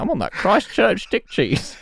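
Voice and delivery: laughing mock Kiwi accent; a cheeky bad New Zealand accent. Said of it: "vape name in a New Zealand accent".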